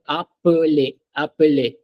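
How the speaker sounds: appeler as ap-puh-LAY, each syllable heard; syllable demonstration. Shown as a demonstration. Teacher asks student to count, clear syllables. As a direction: sound out appeler in three parts. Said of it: "how many syllables are in the word".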